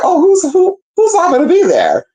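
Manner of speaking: high, eager mock man's voice; mimicking him. The guy fishing for who's coming, high mock voice. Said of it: "and he's like".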